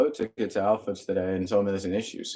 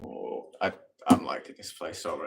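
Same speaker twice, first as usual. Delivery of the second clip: whispered; 5 semitones lower, 5 dB quieter than usual. Real, not acted. Delighted reaction to cool bedroom.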